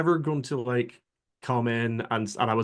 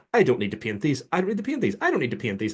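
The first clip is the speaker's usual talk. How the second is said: insistent repetition, the middle one pitched up; retold self-denial; 4 semitones higher, faster than usual. Retelling himself resisting miniature painting, mock-firm denial. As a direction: keep insisting, as if talking yourself out of it. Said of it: "for ages, I was like".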